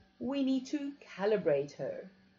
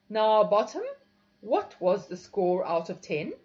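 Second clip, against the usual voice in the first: sultry, louder mistress voice; 7 dB louder than usual. A narrator's reading. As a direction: purr the question, commanding. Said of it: "she inquired in a sultry voice".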